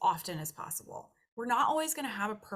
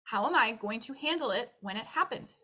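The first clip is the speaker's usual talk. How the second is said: usual speaking voice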